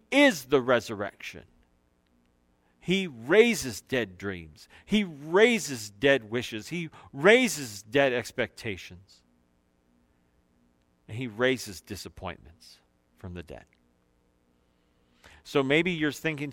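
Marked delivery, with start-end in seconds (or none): 2.8-13.7 slow, weighty repeated sermon line; slow emphatic refrain. Acted. Preacher repeats the refrain to the congregation, slow and weighty. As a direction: let each line land slowly.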